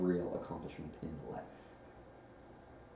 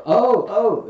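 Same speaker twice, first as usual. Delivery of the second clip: high, loud flustered ohs; startled; 12 semitones higher, 14 dB louder than usual. A narrator's reading. Dozing bear put on the spot, loudly flustered. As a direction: fluster as if caught out.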